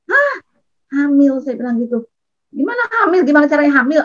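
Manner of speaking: high-pitched retold disbelief at the news; shocked disbelief. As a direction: replay your own stunned reaction, pitch jumping up. Shocked at friend's pregnancy news.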